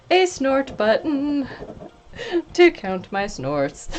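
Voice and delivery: words breaking into giggles; talking while still laughing; laughing through words. Real, not acted. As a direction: squeeze it out between laughs.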